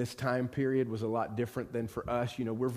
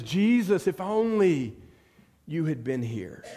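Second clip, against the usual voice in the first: lightly acted anguished plea, dropping at the end; pleading lament; 3 dB louder than usual. Mary runs out to Jesus amid wailing, pleading lament. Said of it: "all the wailing".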